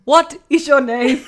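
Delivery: loud, high, slow teacher voice with a laugh; mimicked old teacher. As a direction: ham up the old relief teacher calling out. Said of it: "and she'd say".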